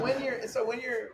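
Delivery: high-pitched, still cracking up; talking through laughter. Real, not acted. Explaining helicopter gunning to friend, laughing through the words. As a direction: try to explain while laughing.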